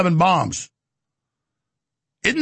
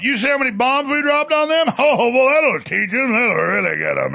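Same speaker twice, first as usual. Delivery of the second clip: mocking gloater, higher with a laugh; Donald Trump; 4 semitones higher than usual. President boasting about bombs dropped, mock gloating.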